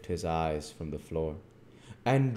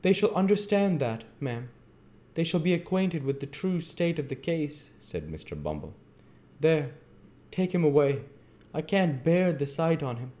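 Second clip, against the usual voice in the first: high, loud, indignant official; pompous beadle; 10 semitones higher, 4 dB louder than usual. Acted. Bumble dismissing Dick in disgust, imperious. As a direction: lay down the law in lofty outrage.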